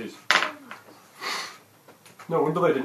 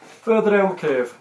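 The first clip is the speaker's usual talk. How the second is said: normal talking voice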